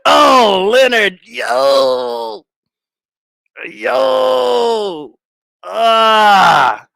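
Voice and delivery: loud, drawn-out cries; long wailing exclamations after laughing; laughed-out exclamation. Real, not acted. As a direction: howl in amused disbelief, stretching the words.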